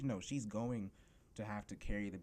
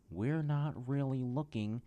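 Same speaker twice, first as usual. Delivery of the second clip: higher, slow brush-off; lightly voiced employee, pitched up; mock store employee; 6 semitones higher, 4 dB louder than usual. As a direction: imitate a dismissive employee, drawn out. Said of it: "let me put on the voice".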